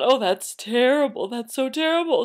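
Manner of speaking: mock horrified lament; dismayed parents. Parents hearing the daughter's fear, mock dismay. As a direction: wail in exaggerated sympathy. Parents appalled, about to cry.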